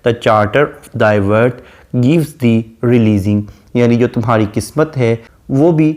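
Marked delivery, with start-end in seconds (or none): 0.1-3.4 each word drawn out slowly; slow poem recitation. Shown as a demonstration. Teacher quotes the poet addressing the fair youth, slowly. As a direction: quote the verse slowly and solemnly. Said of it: "वो कहता है".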